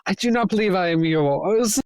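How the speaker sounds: prim lady's voice; genteel lady. Pretend. Trapped lady greeting her rescuers, prim and genteel. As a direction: play it prim and proper.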